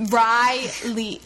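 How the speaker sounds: "Riley" drawn out in two separate syllables; stretched, over-careful "Riley"; sounding out a name. Retold or imitated. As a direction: repeat "Riley" slowly, as if learning it. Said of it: "Riley keeps saying her own name".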